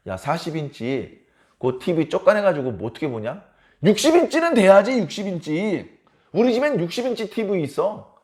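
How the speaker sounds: acted show-off scorn; mildly belittle, then brag; smug one-upmanship; bragging. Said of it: "그렇게 자랑을 하면요".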